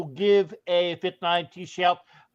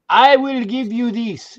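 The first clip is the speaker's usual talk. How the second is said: put-on French accent; 4 semitones higher, 5 dB louder than usual. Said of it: "in my best Jean-Paul Jacques".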